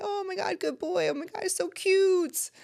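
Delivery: put-on high, squealing baby talk to a cute dog; gushing over a dog. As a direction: coo at the fluffy dog like it's the best thing ever. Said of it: "I'm gonna pet the dog and say".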